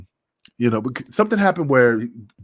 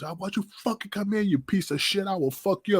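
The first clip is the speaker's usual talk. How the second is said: higher mock tirade, hammed-up; imitating Kiwi cursing out; 9 semitones higher, 4 dB quieter than usual. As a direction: rip into Bagwell in a put-on rage. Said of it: "and he goes".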